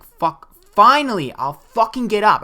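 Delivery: exasperated high yell, falling at the end; retold scream. Woken sleeper yelling at the nagging voice, exasperated retold scream. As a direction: re-enact yelling at whoever keeps pestering. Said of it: "I screamed that".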